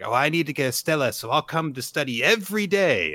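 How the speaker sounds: put-on eager child. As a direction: imitate a keen kid volunteering. Retold child eagerly promising to study.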